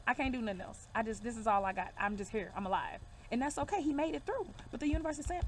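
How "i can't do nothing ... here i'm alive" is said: lightly acted weary man, pitch sinking lower; exhausted. Reader voicing a man worn out by years of work, exhausted. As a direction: let the voice sink as he gives up. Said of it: "he's exhausted. Now he's just sitting like".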